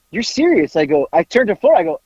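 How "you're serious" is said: mildly imitated worried disbelief, pitched up; retold concern. New store manager questioning his boss, retold with concern. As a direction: ask it higher, mock-concerned. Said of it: "has this look of concern".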